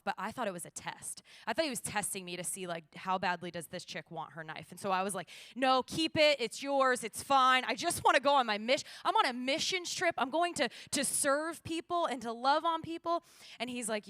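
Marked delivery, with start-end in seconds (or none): 5.6-13.2 high, loud, overwrought insistence; frantic pleading. Retold or imitated. Traveler begging officer to let her go on missions trip, acted frantic plea. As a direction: plead your innocence, pitch and volume up.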